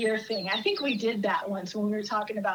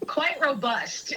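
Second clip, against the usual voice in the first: slow, careful and deliberate; measured understatement; 3 semitones higher, much slower than usual. Real, not acted. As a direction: stretch it out tactfully, very slowly. Tactfully describing loud office women.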